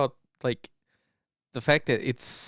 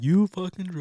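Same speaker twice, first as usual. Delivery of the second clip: louder, higher put-on accusing voice; mock accusation in a character voice; imitated catchphrase; 7 semitones higher, 6 dB louder than usual. Sasquatch calling everyone a drugger, imitated accusation.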